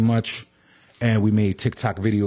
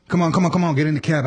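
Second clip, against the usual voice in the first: lightly voiced, higher-pitched cabbie; mock urging, pitched up; pestering cab driver; 5 semitones higher, much faster than usual. Storyteller as cabbie hustling a walker, higher insistent urging.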